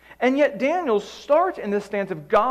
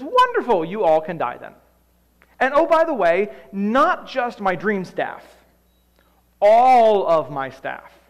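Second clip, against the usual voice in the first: the furious king snaps at his staff; the king lets his whole staff have it; angry king; 6 dB louder than usual. Acted. Angry king dooms his wise men.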